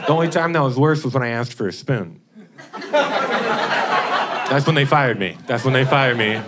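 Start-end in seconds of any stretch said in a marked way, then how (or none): 2.9-5.4 laughing. Real, not acted. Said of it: "repeated punchline".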